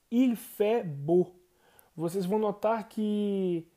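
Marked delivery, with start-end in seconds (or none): 0.1-1.3 "Il fait beau" said slowly and carefully; slow French model. Shown as a demonstration. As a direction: draw out "Il fait beau" for learners. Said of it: "a gente diz". ("Il fait beau" bem devagar)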